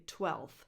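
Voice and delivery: "twelfth" said as "twelth"; simplified "twelfth", l straight into th; dropped F. Shown as a demonstration. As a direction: leave f out before th in "twelfth". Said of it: "drop the F before".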